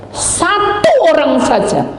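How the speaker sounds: Satu drawn out high and slow; emphatic. Real, not acted. Preacher stressing only one soul is saved, emphatic. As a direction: lean hard on Satu, slowly.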